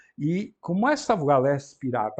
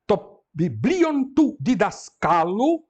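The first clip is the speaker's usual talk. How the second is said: slow read; 4 semitones higher, 4 dB louder, much slower than usual. Shown as a demonstration. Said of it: "teacher reads Greek phrase slowly".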